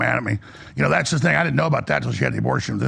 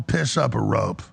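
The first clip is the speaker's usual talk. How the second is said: slow, drawn-out brush-off; slow scornful dismissal; defiant retort; 3 semitones lower, slower than usual. Retold or imitated. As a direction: tell them where to go, slowly. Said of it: "you know what I told them".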